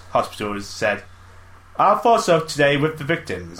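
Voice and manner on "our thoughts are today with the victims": slow, slightly higher put-on spokesman voice; official's voice. Reading a news quote aloud in a mock official voice. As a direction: read it like a hospital spokesman. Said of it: "I'm trying to do a voice".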